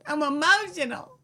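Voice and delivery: high, whiny mock of a tearful politician; mocking the governor. Mocking the governor's tearful line to the co-host, high and whiny. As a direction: sneer it in a high put-on whimper. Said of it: "she said".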